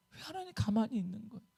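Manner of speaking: softly voiced, helpless question; soft plea. Preacher as Habakkuk asking why God waits, soft plea. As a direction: ask God quietly, almost to yourself.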